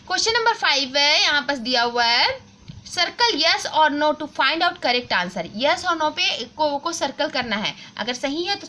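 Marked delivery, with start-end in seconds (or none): 2.9-5.5 put-on slow, careful textbook reading for children; reading aloud slowly. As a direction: read each word clearly for the class. Reads the instruction aloud. (बच्चों के लिए धीरे-धीरे पढ़ना)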